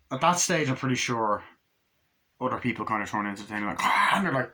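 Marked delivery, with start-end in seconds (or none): 3.8-4.2 short high, loud mock scream; imitated scream. People getting killed off, imitated scream. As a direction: cry out like a movie victim.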